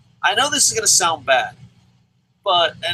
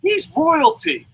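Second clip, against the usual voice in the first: high, slow mock wail of protest; imitated lady's scream; 10 semitones higher, 3 dB louder, much slower than usual. Lady defends Prince Devitt from his attacker, imitated high scream. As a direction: stretch it out like an indignant fan. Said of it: "a lady screams and goes".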